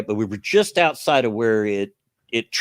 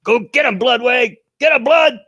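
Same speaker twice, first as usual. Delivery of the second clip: higher, louder hammed-up sniper call; imitating Mordecai; 6 dB louder than usual. Gamer quoting Mordecai calling his bird, hammed-up shout. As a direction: egg the bird on like a game hero. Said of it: "because he'll go".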